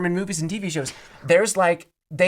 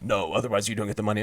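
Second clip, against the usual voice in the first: mocking quote voice; 7 semitones lower, 5 dB quieter, faster than usual. Boss quote told in story.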